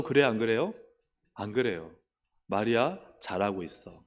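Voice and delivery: ordinary talk, nothing marked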